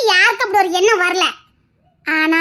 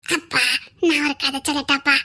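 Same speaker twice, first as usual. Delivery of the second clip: put-on softer small-child voice; childlike voice; 6 semitones lower, 4 dB quieter than usual. Little girl asking her father to let her tell a story.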